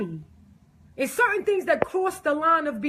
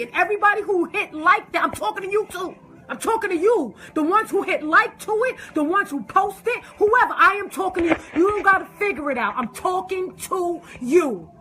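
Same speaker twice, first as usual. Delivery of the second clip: raised, pointed scolding of the posters; angry callout; 5 semitones higher than usual. Real, not acted. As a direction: call them out straight, voice up high. Calling out meme posters directly.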